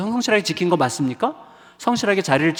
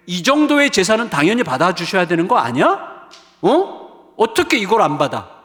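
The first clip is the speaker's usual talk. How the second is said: acted indignation; 3 dB louder than usual. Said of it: "우리는 화부터 내요".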